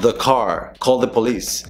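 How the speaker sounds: "the" as a short "duh"; schwa pronunciation. Shown as a demonstration. Teacher showing the consonant rule, schwa pronunciation. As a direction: reduce "the" before "car" and "police". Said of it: "va a tener el sonido schwa".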